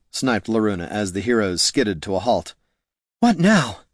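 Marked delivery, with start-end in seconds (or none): 3.2-3.8 panted. A narrator's reading. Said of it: "panted Niln".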